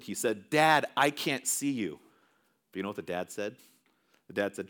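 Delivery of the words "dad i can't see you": slow, mildly pleading protest; understated, drawn-out protest; retold protest. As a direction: protest slowly, as a boy in a retelling. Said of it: "But the boy protested".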